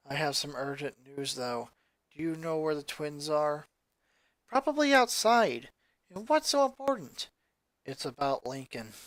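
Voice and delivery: low, soft, deadpan goth sister; a lightly voiced somber teen; gloomy goth girl. Lucy's voice held by narrator.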